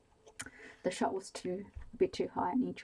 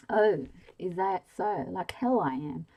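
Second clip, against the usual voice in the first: defiant; 9 dB louder than usual. A narrator's reading. Dying man defies his captor.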